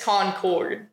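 Concord said as CON-CORD, slowly; slow, corrective Concord with both syllables clear; full second syllable. Shown as a demonstration. Corrects how the name is said.

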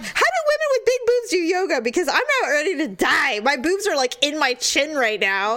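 high, fast exasperated rant; mock panic. Sister retelling choking herself in yoga, high fast mock panic. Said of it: "I'm like".

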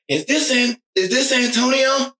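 high, baffled caller's voice; imitated confusion on the phone; confused caller. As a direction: ask in a high, puzzled mock voice. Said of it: "they were, like, so confused".

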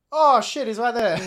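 loud, high burst of alarm; alarmed exclamation. Retold or imitated. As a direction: yelp as danger suddenly arrives. Rider suddenly arrives beside car.

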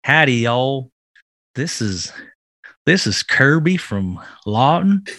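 light Southern accent for a mock radio ad, folksy and friendly. Podcast host doing a joke commercial on a dare, light Southern accent. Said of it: "Do it in, in a Southern accent".

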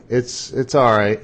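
a flat, unconvincing all right. Retold or imitated. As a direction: say it like you don't mean it. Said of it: "that didn't sound real".

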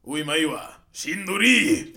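slow, lightly voiced anime line; a hint of anime character. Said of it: "do your anime voice".

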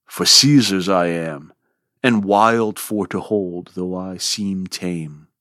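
measured, even reading of a sonnet; poem recitation. Acted. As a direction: recite it gravely, line by line.

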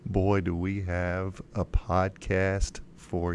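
low, slow, sinister host voice; unhinged villain. Acted. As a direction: drawl the teaser like a scheming villain. Theatrical podcast intro voice.

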